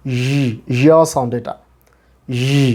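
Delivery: ই as a buzzing consonant y; drawn-out consonantal ই; isolated y sound. Shown as a demonstration. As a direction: hold ই with friction, like the start of ইয়া. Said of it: "sound হবে এরকম".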